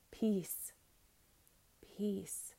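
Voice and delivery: gentle calming command, softening; calm peace. Retold or imitated. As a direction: hush the storm gently. Jesus calming the storm.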